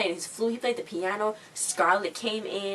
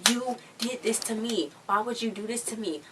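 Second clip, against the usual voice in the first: mock upset complaint; 4 semitones higher than usual. Jenna blames Carly for her detention, mock upset complaint. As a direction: imitate a wronged wail at someone. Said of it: "She was yelling at Carly".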